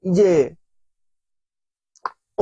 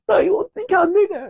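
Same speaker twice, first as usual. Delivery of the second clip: tearful pleading; 11 semitones higher than usual. Retold or imitated. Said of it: "눈물이 막 흘리더라고요".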